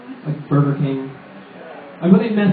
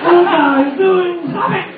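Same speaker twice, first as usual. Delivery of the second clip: Bill Cosby impression; 12 semitones higher than usual. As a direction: squeal it out as the Cosby voice, cracking up. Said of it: "Like Bill Cosby".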